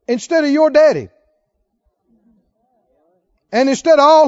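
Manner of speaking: loud, declaiming defiance; husband answering his wife, loud and unashamed; forceful retort. Retold or imitated. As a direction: preach it out as the king's answer. David's defiant reply.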